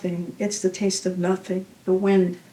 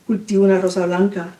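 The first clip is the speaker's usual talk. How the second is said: stumbling Spanish; faster than usual. Acted. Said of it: "how do you read that accent".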